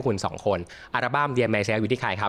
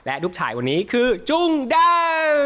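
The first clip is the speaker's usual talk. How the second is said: bright, upbeat host opening; show host intro; 6 semitones higher, 3 dB louder than usual. Acted. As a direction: welcome the audience like a talk-show host. (เสียงพิธีกรเปิดรายการอย่างสดใส)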